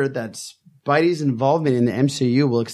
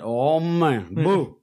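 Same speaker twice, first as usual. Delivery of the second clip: lightly voiced character with a famous singer's tinge; a hint of a famous singer in the voice; Haz; much slower than usual. Co-host imitates Haz for the guys, lightly singer-like impression. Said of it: "I'm gonna do my Haz voice".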